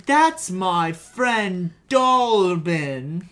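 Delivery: slow mock Welsh accent; slow put-on Welsh lilt. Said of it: "assume that's what a Welsh accent is".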